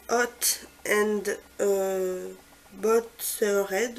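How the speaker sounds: hesitant English in a French accent; slow, halting French-accented English. Real, not acted. Vlogger unsure how to say a shade name, French accent. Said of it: "excusez-moi mon accent".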